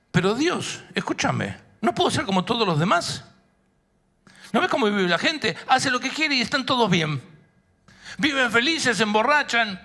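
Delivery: high-pitched, insistent complaint to God; protesting plea. Pretend. Imagined Noah begging God to let him live like everyone else, protesting.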